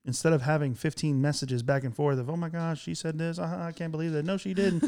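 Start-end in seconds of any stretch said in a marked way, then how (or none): 2.3-4.8 put-on gossipy higher valley girl voice. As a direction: gush like a texting valley girl. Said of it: "you're making me sound like ... a valley girl".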